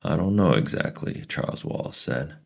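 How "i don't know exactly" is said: excited. Acted. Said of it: "His voice quivered with excitement".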